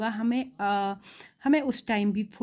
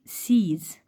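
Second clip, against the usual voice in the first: whispered demo; 2 semitones lower, much slower than usual. Shown as a demonstration. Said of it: "देखो".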